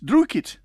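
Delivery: "Druitt." high with a rolled Scottish r. Shown as a demonstration. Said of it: "that's when you're soaked by the rain".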